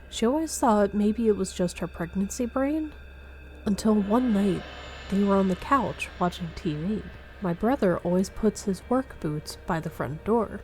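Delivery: ordinary delivery, nothing marked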